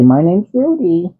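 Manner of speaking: high, slow repeat for the cat; prompting again. Pretend.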